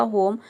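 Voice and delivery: "होम" begun with audible h; sounded H. Shown as a demonstration. Teacher puts the letters together, sounded H demo. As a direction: say "होम" with ह and a silent final e. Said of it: "एच का ह हो जाएगा".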